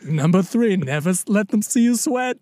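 attempted Brooklyn accent, a little Eastern European. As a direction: give a rule in shaky imitation Brooklyn. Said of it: "number three in a Brooklyn".

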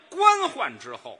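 slow, high, loud enunciation; emphatic correction. Acted. Straight man corrects his partner's wording, emphatic correction. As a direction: spell the phrase out loudly and slowly.

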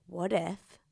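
hushed whisper. Real, not acted. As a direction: breathe it secretly. Whispered fantasy aside.

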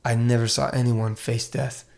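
put-on slow, solemn German accent. Doctor recalling the pastor's death, slow German accent. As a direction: testify with a German accent, pausing between phrases. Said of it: "I'm doing my German accent".

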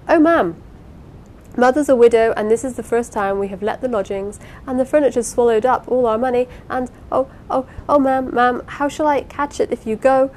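high, loud, distraught wail; hysterical pleading. A narrator's reading. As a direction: beg as if breaking into sobs. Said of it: "hysterical sobs pathetically supplied their face".

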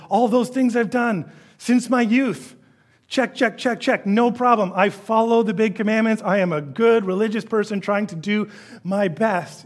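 high, self-satisfied ticking of boxes; smug rich man. Retold or imitated. Rich man boasts to Jesus of keeping commandments, lightly voiced. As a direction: rattle off the checklist proudly.

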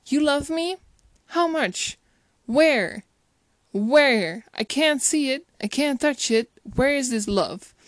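a hint of a doubting lover; mildly incredulous character. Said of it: "somebody said".

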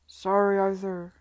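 loud shout from a passing carriage. Acted. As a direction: shout it as you fly past. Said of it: "shouted Sidney".

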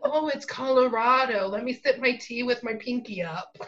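mock posh with a laugh; fancy voice. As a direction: play a hammy snob. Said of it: "sounds like you're fancy".

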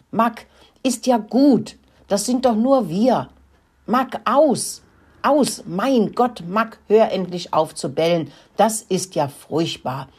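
high, loud scolding call at the dog. Acted. Emma yells at the barking dog Mack, loud. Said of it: "rief Emma".

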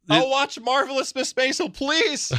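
plead, then give in; defeated viewer begging the streaming service; mock pleading. Acted resigned subscriber pleading.

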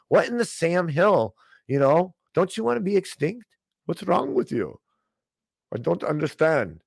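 sarcastic, put-on dismay; mock bafflement. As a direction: act exasperated and totally baffled by them. Pretends bafflement at the audience.

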